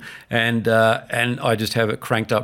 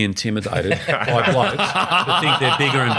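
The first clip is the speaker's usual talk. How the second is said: laughing; 3 semitones higher, slower than usual. Real, not acted. Laughing advice to son.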